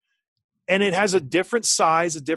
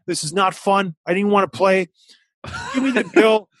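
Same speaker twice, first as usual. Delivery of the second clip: retold sulky complaint; 3 semitones higher than usual. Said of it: "I'm like".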